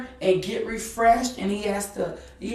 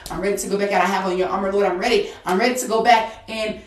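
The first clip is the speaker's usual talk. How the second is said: fervent prayer. Real, not acted.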